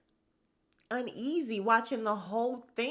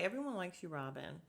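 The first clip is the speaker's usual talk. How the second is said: quiet reassurance; 10 dB quieter than usual. Retold or imitated. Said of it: "Candace say".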